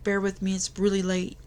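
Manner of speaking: sleepy, mid-yawn. Real, not acted. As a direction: talk through a yawn. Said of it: "I'm gonna yawn on you guys".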